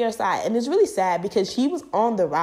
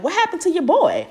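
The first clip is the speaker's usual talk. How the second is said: mom asking; 10 semitones higher, 3 dB louder than usual. Retold or imitated. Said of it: "my mom came in my room and she was like".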